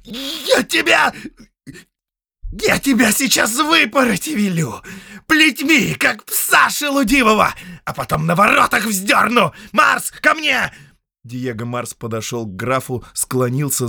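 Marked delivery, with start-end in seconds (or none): 0.0-10.7 loud, much higher raging shout; furious threats. Acted. Count threatening the prisoner, raging shout. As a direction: rage and command the guards.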